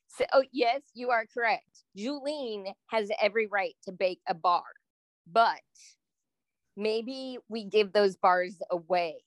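lightly put-on life coach manner; a measured hint of a life coach. S1 conceding the point about the baked bars, light life coach voice. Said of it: "using your life coach voice".

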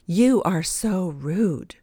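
slow, mock-indignant accusation; lady accusing the narrator in the parking lot; indignant exclaim. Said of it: "she exclaimed".

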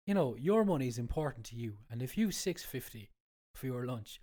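blocked nose from a cold; stuffy nose. Real, not acted. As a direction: talk through a head cold. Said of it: "I have a cold, that's why I sound like this".

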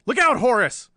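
loud, high shouted warning; yelling warning. Acted. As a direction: yell to save your friend. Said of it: "a yell burst from Handlon".

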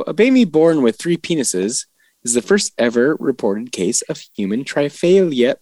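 even news-anchor read; newscaster voice. Pretend. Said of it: "I really like your newscaster voice".

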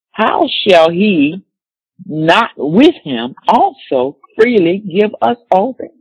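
slow, measured reading of the verse; solemn scripture reading. Acted. Preacher to congregation, reading Romans slowly and solemnly. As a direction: read the promise slowly and with weight.

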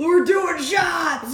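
slow, drawn-out whoop; party cheer. Pretend. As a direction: shout it like a party girl.

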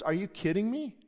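mock indignant sports fan; incredulous protest. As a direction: act shocked at the suggestion. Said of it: "He goes".

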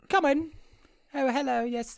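high, airy British greeting; mock British accent. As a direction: put on a posh British hello. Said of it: "a British accent".

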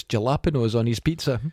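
"jalapenos" with an English J at the start; mispronounced jalapenos. Retold or imitated. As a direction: say "jalapenos" as written, with a J sound. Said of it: "heard that it's not right".

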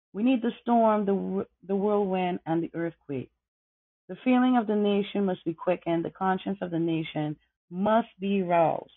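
measured orator's delivery, building to fire; oratorical speech recitation. Acted. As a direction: declaim it like a nineteenth-century abolitionist at the podium.

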